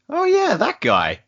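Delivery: high, slow, drawn-out "Oh yeah"; mock dismissive. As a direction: drag it out like you barely remember him. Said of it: "we're just like".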